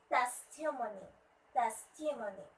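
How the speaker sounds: "Testimony" as TES-ti-mo-ny, falling away; stress on first syllable. Shown as a demonstration. Teacher praising, then modelling, "Testimony" stressed on TES. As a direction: hit TES at the start of "Testimony". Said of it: "stress should be at the first syllable".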